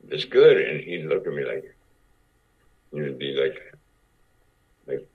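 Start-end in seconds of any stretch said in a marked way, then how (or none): 0.1-0.6 mock eager. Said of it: "I would look at him and go".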